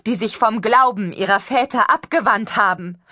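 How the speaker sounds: a stranger prophesying loud and high to the crowd; high preaching voice. Acted. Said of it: "eine hohe Stimme".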